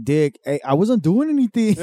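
high, protesting cholo; innocent cholo. Retold or imitated. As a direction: play innocent to the cops. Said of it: "they're like".

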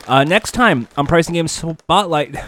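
talking through a mouthful of chips; mouth full. Real, not acted. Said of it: "there's chips in my mouth".

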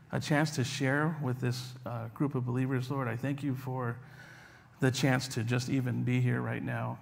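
earnest, hushed prayer voice. Acted. Leads opening prayer.

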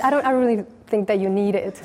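quick, laughing through the words; a sheepish chuckle while rushing it out; flustered monk laughing nervously at the water-walking hermit. Retold or imitated.

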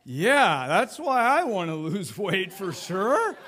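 hammed-up, slow, wobbling agreement; comic about-to-cry voice; mock near-tears. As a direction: pretend to choke up while insisting on it. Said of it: "I'm about to cry going".

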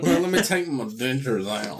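toothless. Pretend. Dentures joke.

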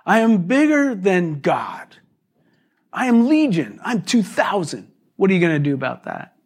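mock demonic bravado, lightly voiced; boasting Satan. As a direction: play Satan bragging to Jesus. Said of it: "He's like".

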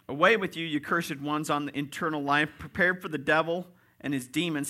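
forceful scriptural pronouncement; stern banishment. Acted. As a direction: send them away firmly. Acting out the judge banishing sinners.

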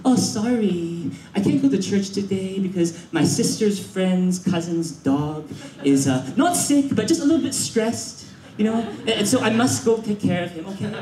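mock apologetic excuse-making; feeble excuse. Person without ambition skipping church, hammed-up apologetic excuse. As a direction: hem and haw through a lame excuse. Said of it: "It's always as an excuse".

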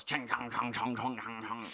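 imitating a crude mock-Asian chant; retold jeering mock-Asian gibberish; mocking fake Asian voice. Storyteller imitates the man jeering, mocking fake Asian voice. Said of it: "Like, really mocking Asian voice".

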